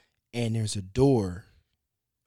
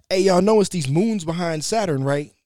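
higher, louder mock call to France; calling out a big discovery, raised and loud; excited announcement; 7 semitones higher, 6 dB louder than usual. Astronomers calling up France with news, higher and louder. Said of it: "And they went".

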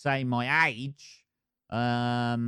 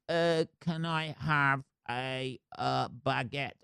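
slow, soft, halting mock tourist; mock clumsy tourist; 5 dB quieter, slower than usual. Mocking a Brit ordering in France, slow and halting. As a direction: stumble through it like a nervous tourist. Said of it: "you just sound fucking retarded when you're over there".

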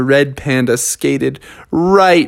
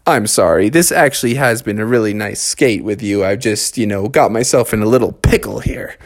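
low apologetic Froggy; 6 semitones lower than usual. A narrator's reading.

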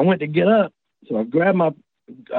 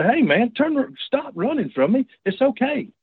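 friendly reassuring call; 6 semitones higher than usual. Retold or imitated. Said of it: "I was wanting to say".

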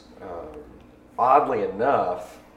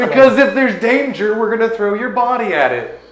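laughing while talking, higher; 11 semitones higher, 10 dB louder than usual. Real, not acted. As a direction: speak through giggles. Joking through laughter.

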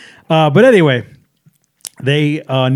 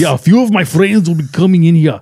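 put-on German accent. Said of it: "I'll show you".

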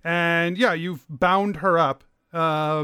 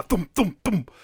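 imitated thumps. Shown as a demonstration. Game master imitates arrows hitting.

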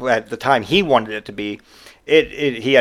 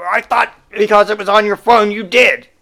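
higher, puzzled whine; confused customer; 8 semitones higher, 4 dB louder than usual. Retold or imitated. Customer explains his mix-up to the clerk, high whine. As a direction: sound baffled and put out.

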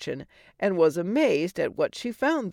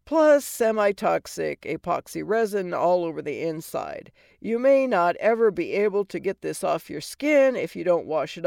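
brash, mocking fairy godmother; sassy godmother voice. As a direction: tease her like a sarcastic old fairy. Godmother warning.

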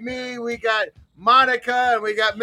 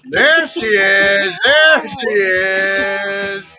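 loud greeting; 7 dB louder, much slower than usual. Real, not acted. Greeting Monica joining the call.

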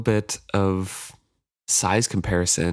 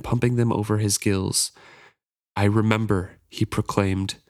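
story narration. A narrator's reading.

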